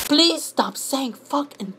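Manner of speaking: high voice rising into a wail; plead, then build to a hammed-up screech; mock pleading commenter. Commenter begging him not to swear, mock pleading into wailing. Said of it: "you want me to show you?".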